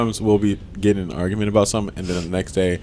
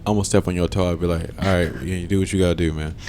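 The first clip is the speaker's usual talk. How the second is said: chill; 6 semitones lower, 6 dB quieter than usual. Retold or imitated. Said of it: "I used to be so chill".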